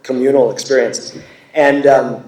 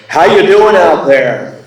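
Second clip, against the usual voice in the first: raised-pitch, loud stage greeting; a singer between songs; 6 semitones higher, 7 dB louder, slower than usual. Retold or imitated. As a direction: imitate an old crab of a singer addressing the crowd. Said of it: "such an old crab when he talks".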